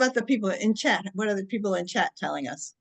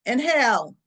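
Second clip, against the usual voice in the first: calling out; 4 dB louder than usual. Shown as a demonstration. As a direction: call out the cue to the group. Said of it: "I'm gonna yell out".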